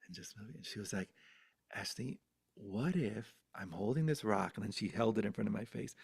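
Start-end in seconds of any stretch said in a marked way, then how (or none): 1.8-4.5 soft grandmother coaxing; hypnotizing. Retold or imitated. Grandmother hypnotizing child with a rock, softly. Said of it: "she started hypnotizing me with it".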